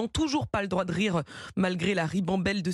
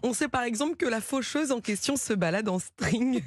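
laughing; 3 semitones higher than usual. Real, not acted. Laughing while describing the reaper.

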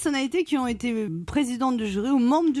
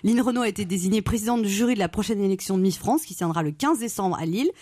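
low sultry purr; languorous voice; 4 semitones lower than usual. Shown as a demonstration. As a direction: seduce the listener with every word. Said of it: "quand je prends une voix comme ça".

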